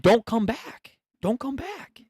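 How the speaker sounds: high mocking voice. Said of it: "I thought they said".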